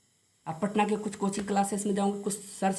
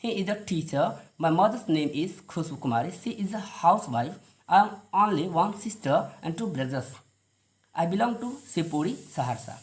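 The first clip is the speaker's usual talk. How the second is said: careful standard English, slow and lower; 3 semitones lower, much slower than usual. Shown as a demonstration. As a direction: model standard English for the class. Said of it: "एक बार standard English". (स्टैंडर्ड English उच्चारण)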